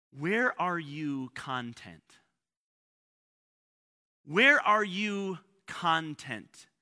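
content as CON-tent, slowly and deliberately; slow question, stressing CON in content; stress on first syllable. Shown as a demonstration. Preacher asking congregation where they are contained, content stressed on CON. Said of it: "different emphasis".

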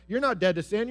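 loud accusing denial; accusing Satan. Acted. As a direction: sneer it at them. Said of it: "Satan is certainly gonna whisper in our ear and say".

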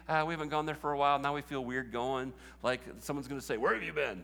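a light, quick hint of Chuck's voice. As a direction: rattle it off lightly in a friend's voice. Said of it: "that was Chuck's voice again".

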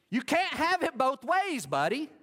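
a mock scold to the little brother; loud, half-joking rebuke; emphatic loud point. Preacher's loud punchline.

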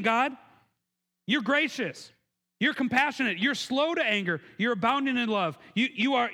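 mock-indignant prophet griping that God forgives too much; indignant complaint. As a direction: complain to God like a sulking prophet, rising on I don't like it. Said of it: "he's complaining to God".

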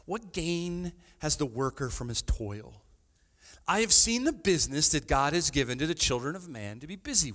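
measured reading voice; scripture reading. Real, not acted. Preacher reads Ecclesiastes to the congregation, measured. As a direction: read it plainly from the page.

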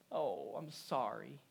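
soft, slow voiced sympathy; sympathetic. Kind person consoling someone hurting, gently sympathetic.

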